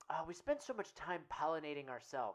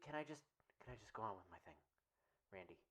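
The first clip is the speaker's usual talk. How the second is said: frustrated; 9 semitones lower, 10 dB quieter, much faster than usual. Real, not acted. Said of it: "I got a little frustrated".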